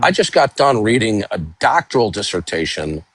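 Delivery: mic cutting out; choppy broken-up audio; bad connection. Real, not acted. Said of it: "Doc, your mic is cutting out".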